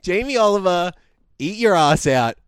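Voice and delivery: mock a clumsy Cockney accent; hammed-up fake Cockney; bad Cockney accent. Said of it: "Sam does a bad Cockney accent".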